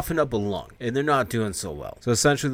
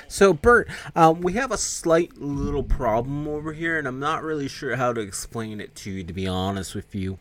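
sheepish confession; 4 semitones higher than usual. Retold or imitated. Employee phoning his boss about a problem, sheepish.

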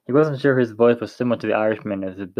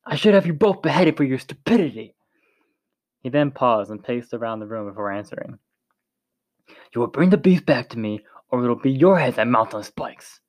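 threatening commander. A narrator's reading. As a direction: lay down the threat coldly. Commander voiced in the story.

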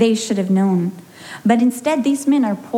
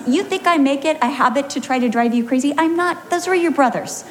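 raised and fast, playful defence; husband's high, quick teasing reply; 4 semitones higher, faster than usual. Retold or imitated. Husband teasing wife about her driving, high and quick. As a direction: pitch it up and rattle it off, teasing. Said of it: "And he says".

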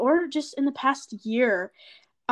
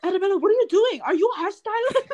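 higher, louder mock scolding teacher; 7 semitones higher, 5 dB louder, faster than usual. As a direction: call her out like an amused teacher. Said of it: "He'd be like".

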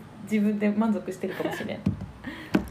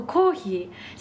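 drawn-out Hokkaido コーヒー; Hokkaido accent; much slower than usual. Shown as a demonstration. Agreeing with her friend on dialect words, Hokkaido accent. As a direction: say コーヒー slowly in Hokkaido intonation. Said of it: "方言が出ちゃうから".

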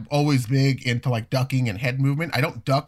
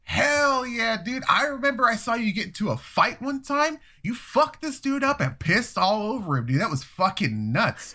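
much higher, pumped-up bro voice; excited bro Mark; 10 semitones higher than usual. Retold or imitated. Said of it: "he goes".

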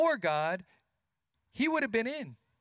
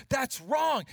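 fired-up protest; 5 semitones higher, 4 dB louder than usual. Retold or imitated. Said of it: "David got so fired up".

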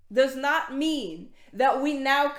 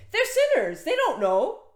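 pitched high, urgent plea; fervent high preaching voice; impassioned preaching; 5 semitones higher, 4 dB louder than usual. Real, not acted. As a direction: plead for the lost.

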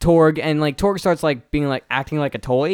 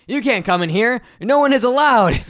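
mock Brooklyn accent, higher and louder, blocking the way; a loud Brooklyn-ish elf guarding the door; 8 semitones higher, 4 dB louder than usual. Host quoting the movie elf, a high loud mock Brooklyn accent. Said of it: "this guy kind of has this Brooklyn, Brooklyn-y accent".

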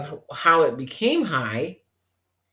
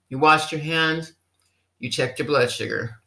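ordinary talk, nothing marked

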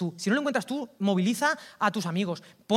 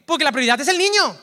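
louder, preacher pressing the point home; forceful declaration; 5 semitones higher, 9 dB louder than usual. Real, not acted. A preacher insisting to his congregation, loud and firm.

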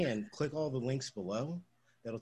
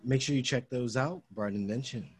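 customer service voice; 3 dB louder than usual. Acted. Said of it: "that's my work voice".

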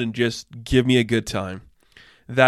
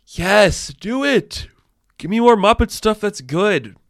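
excited demand; 8 semitones higher, 3 dB louder, slower than usual. Real, not acted. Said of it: "begging for good Muppet content".

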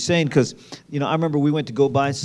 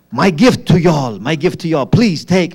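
mock-eager gift presentation; excited offering; 6 dB louder than usual. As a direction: imitate a tipsy, thrilled man pressing a gift on friends. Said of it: "so excited. He's like".

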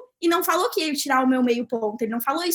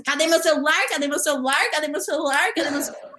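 imitating crowd's clamor. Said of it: "E todo mundo começou nessa".

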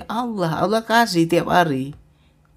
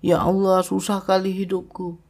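higher, pleading whine to God; whining prayer; 4 semitones higher than usual. Retold or imitated. Preacher mimics believers whining to God about money. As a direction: complain to God like a whimpering child. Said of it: "Merengek kita tiap hari".

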